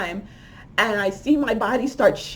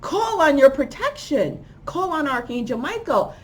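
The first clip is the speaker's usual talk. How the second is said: higher, insistent scolding reminder; upset voice; 5 semitones higher than usual. Retold or imitated. Guardian voice urges her to call for protection, upset and insistent. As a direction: imitate an upset guardian giving urgent orders. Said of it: "and was upset with me".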